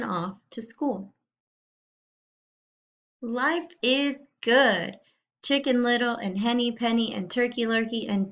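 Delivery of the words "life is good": joyful cheer. Acted. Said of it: "screamed as they ran".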